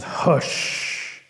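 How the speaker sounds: menacing whispered "hush"; panther whisper. Acted. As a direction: hush him in a soft threat. Panther grabs Rabbit.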